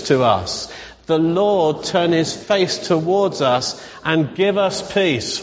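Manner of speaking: slow, measured recitation of a blessing; slow benediction with drawn-out phrases; spoken blessing. Acted. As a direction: pronounce a blessing over them, word by word. Leads the blessing for everyone.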